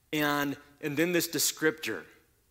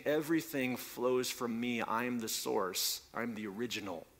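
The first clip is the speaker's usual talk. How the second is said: voicing God; 2 semitones lower, 6 dB quieter than usual. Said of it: "he's saying".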